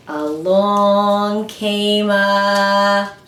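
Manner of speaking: slow storytelling poem voice; counting poem. Acted. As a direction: recite slowly for children. Reads counting poem slowly.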